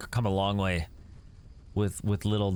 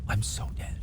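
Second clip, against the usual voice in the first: whispered doom; 4 dB quieter than usual. Real, not acted. Resigned doom.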